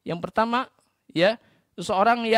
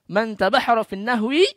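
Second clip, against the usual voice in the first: declaimed Arabic quote; 6 dB louder than usual. Retold or imitated. Quotes Imam Syafi'i's Arabic saying.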